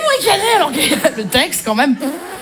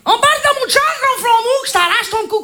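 put-on Quebec accent; 3 semitones higher than usual. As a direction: threaten cheerily in a thick Quebec accent. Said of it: "avec l'accent québécois".

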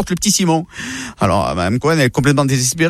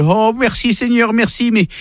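high, cheeky thanking prayer, slowed at the start; grateful grandmother; 6 semitones higher than usual. Acted. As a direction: thank God then sneak in a request. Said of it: "elle dit à Dieu".

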